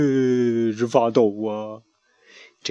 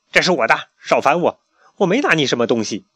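louder, fast defensive brush-off; defensive denial; 4 semitones higher, 4 dB louder than usual. Acted. Chick denying to the pharaoh, defensive and quick. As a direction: push him away, talking fast. Chick denies taking treasure.

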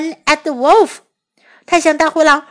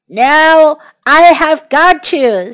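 wolf voice; 6 dB louder, slower than usual. Acted. Wolf catches a kid.

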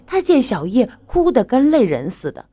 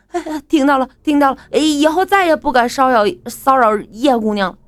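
higher, hurried mild pleading; cowed reply; 5 semitones higher, 4 dB louder than usual. Acted. Beaten thugs hastily answer the boyfriend, lightly cowed. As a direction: grovel a little, eager to agree.

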